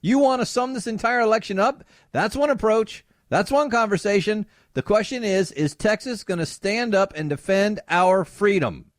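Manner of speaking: Ted Cruz impression. Cruz rallying supporters about gun freedom, lightly imitated. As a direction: pump up the Texas crowd. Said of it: "he says".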